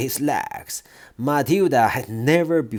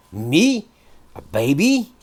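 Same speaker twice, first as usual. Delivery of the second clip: shouted; 3 semitones higher than usual. Acted. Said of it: "shouted the Trunchbull".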